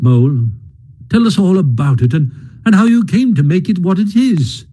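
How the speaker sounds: bustle about with hearty cheer; lightly voiced brisk Rat.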